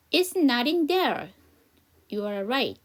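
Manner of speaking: slow answer in a second voice; slow practice read. Shown as a demonstration. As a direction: play the other speaker, slowly. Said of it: "여기 저랑 같이 한번 연습해봐요". (다른 역할 목소리로 천천히 대답)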